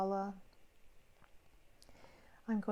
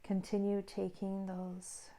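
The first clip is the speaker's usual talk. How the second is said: guided meditation. Real, not acted. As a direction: ease the listener inward, phrase by phrase.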